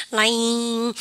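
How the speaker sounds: "lying" with the vowel stretched out long; drawn-out mispronunciation. Shown as a demonstration. Teacher shows how the misspelt word cannot be said, drawn-out "lying". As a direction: demonstrate an impossible "lying", holding the sound. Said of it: "이렇게 할 수가 없잖아요, 발음을요".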